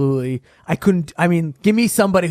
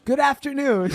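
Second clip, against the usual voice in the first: Johnny Carson impression; 7 semitones higher than usual. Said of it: "Johnny Carson".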